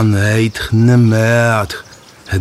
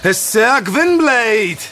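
slow, raised call into the forest; 11 semitones higher, much slower than usual. Acted. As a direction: call it out high and long. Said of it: "Zawołał ponownie".

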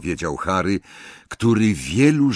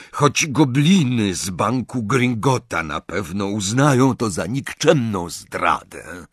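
goblin voice; 5 semitones higher, 4 dB louder than usual. Acted. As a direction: weigh each word like a goblin. Goblin agrees to help.

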